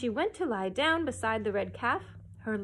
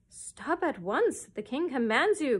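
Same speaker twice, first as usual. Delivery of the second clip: slow, louder chorus repeat; courtiers crying out; 4 semitones higher, 5 dB louder than usual. Acted. Courtiers echoing the king at the cow, loud. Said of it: "cried all the courtiers".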